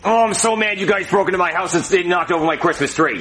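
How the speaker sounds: mild, half-hearted anger; unconvincingly mad. Acted. Homeowner confronting the intruders, unconvincingly mad. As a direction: complain without any real fire. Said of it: "you don't look mad at all".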